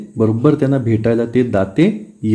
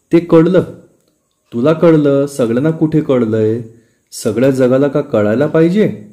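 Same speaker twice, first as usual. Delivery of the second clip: exasperated wife; 2 semitones higher than usual. Acted. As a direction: snap back, fed up. Wife losing patience with husband.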